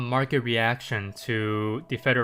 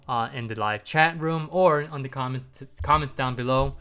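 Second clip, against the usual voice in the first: blocked nose, stuffy voice; talking through a stuffy nose. Real, not acted. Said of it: "apologies about my voice".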